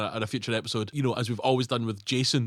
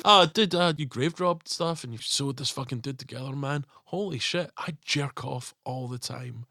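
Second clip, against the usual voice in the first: mock Pretorius confession; slower than usual. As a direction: confide it like a seedy mad scientist. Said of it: "You know how you".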